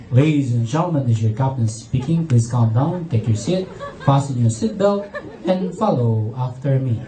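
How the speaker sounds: very low, measured announcement; composed captain. Retold or imitated. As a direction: stay calm amid chaos as the pilot. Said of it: "And still composed".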